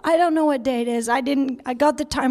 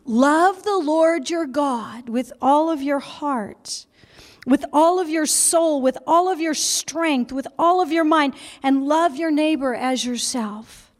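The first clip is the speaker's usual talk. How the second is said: solemn recitation. Acted. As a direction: recite each phrase deliberately. Reciting the commandment.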